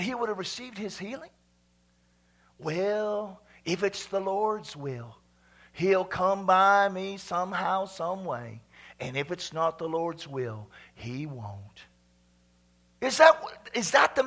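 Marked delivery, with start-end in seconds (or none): 2.6-11.9 slow, measured, sinking at the end; passive resignation. Acted. Preacher mimicking someone who would not call out, resigned. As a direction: leave it to fate, slowly, trailing lower.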